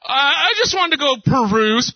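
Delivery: wife asking to stop by the mall, lightly mimicked; sweet wife voice. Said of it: "she tells me".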